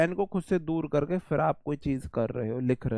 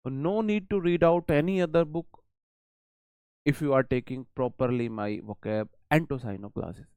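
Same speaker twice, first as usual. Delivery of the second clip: slow reassurance; much slower than usual. Real, not acted. Teacher reassures student slowly.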